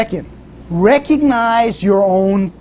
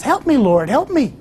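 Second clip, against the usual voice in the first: rising plea, last words pitched high; pleading; 6 semitones higher than usual. Retold or imitated. Hiker on the twig begs the Lord, rising plea. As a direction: beg the Lord, voice climbing. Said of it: "The fellow says".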